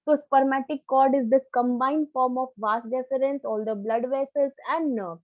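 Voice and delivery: slow, measured summing-up for students; deliberate definition. Real, not acted. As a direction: state the definition slowly, term by term. Teacher restates the definition for class. (धीरे-धीरे, परिभाषा दोहराते हुए)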